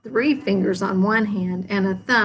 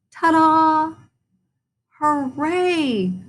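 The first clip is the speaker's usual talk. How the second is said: loud high showman's ta-da then a cheer; 8 semitones higher, 4 dB louder, much slower than usual. A narrator's reading. After Froggy's dance, crowd cheering loudly. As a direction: announce the finish with a flourish. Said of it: "cheered Froggy's fans".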